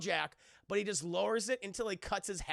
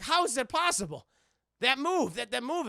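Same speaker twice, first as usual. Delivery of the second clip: mock disbelief; 5 semitones higher, 6 dB louder than usual. Retold Jack baffled sword held.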